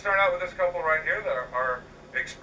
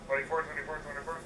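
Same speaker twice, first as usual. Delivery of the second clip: auctioneer; 5 dB quieter, faster than usual. Pretend. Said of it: "I feel like an auctioneer".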